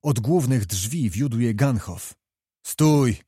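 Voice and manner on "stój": a loud barked halt; shouted command. Acted. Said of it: "krzyknął książę".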